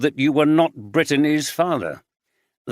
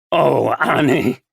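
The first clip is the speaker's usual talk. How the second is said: slow, louder anguished cry; breaking into tears; 5 dB louder, slower than usual. A narrator's reading. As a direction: let the grief break through. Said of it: "He burst into tears".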